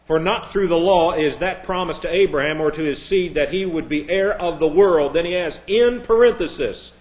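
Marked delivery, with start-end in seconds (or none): 0.0-5.1 lightly hammed-up pompous scholar reading, louder; mock scholar. Preacher mocking a colleague's stilted translation, pompous reading. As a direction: read it like a stuffy scholar, a touch overdone. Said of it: "Nobody talks like this except a scholar".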